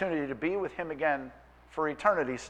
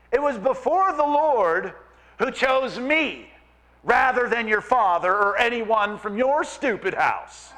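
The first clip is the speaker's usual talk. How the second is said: mock gentle whisper; 5 semitones higher, 3 dB louder than usual. David answering his wife Michal, loud and mocking. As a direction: pretend it's gentle while blasting it. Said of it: "whispers gently".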